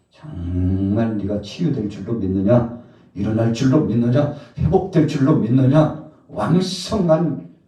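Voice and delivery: loud, escalating challenge to the flock; fervent preaching. Acted. Preacher voices Jesus' challenge. (점점 힘주어 외치는 설교)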